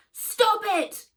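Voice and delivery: loud high scream. A narrator's reading. Girl screaming at the man kicking the wolf, loud scream. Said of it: "screamed Nat".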